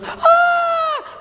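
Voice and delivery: very high-pitched mock scream; shrieked "Ah!" in falsetto; mom's scream. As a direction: imitate a horrified mother screaming. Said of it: "your mom starts screaming".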